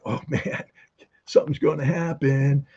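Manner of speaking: giggling, hushed and gleeful over a secret; barely holding in a laugh as she leaks it; giddy. Retold or imitated. Albright to her French counterpart, giddy and half-laughing. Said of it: "almost just dying, giddy".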